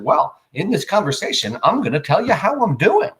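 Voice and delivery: rising, pompous announcement as Johnny; a hint of a stiff, formal Johnny; mock stilted answer. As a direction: play Johnny announcing his answer like a robot. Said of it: "I pretend I'm Johnny".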